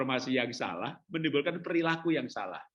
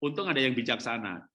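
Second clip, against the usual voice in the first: usual speaking voice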